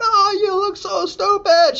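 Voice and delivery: high, slow words through laughter; mock him while cracking up; secretary howling with laughter as she teases; laughing mockery. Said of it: "she was laughing so hard".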